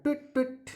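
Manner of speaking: two high, short tweets; demonstrated tweet-tweet; bird tweet. Shown as a demonstration. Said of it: "bird कैसे sound निकालता है".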